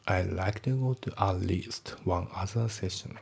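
slow, careful English example; measured textbook read-aloud; slow model reading. Shown as a demonstration. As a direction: read it word by word.

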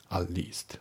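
at least with no t on at; dropped t in at. Shown as a demonstration. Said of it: "atのTが抜けますね".

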